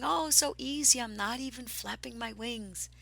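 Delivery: high, breezy, carefree bird voice; imitating a soaring bird. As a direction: playfully voice a smug eagle. Voicing soaring birds.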